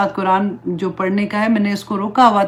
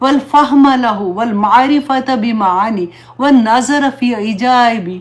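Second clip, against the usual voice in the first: slow, devout recital of an Arabic prayer; prayer recitation; slower than usual. Acted. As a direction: recite it unhurried like a du'a, each phrase drawn out. (آہستہ، عقیدت سے دعا پڑھنا)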